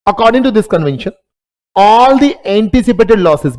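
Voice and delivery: spelling out each word slowly for notes; slow dictation. Acted. Teacher dictating a definition to students, very slow and deliberate. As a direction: dictate it so students can write.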